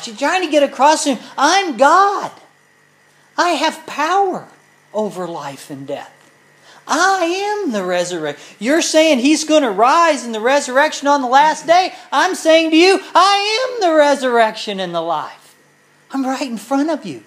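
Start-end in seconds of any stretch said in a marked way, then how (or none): 1.4-8.4 high, loud proclamation as Jesus; lifted voice of Jesus declaring who he is; voicing Yeshua. Preacher voices Yeshua speaking. 12.1-17.2 high, loud proclamation as Jesus; lifted voice of Jesus declaring who he is; voicing Yeshua. Preacher voices Yeshua to Martha.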